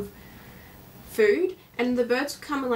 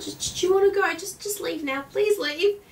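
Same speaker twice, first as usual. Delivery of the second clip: exasperated; 7 semitones higher than usual. Retold or imitated. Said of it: "I was like".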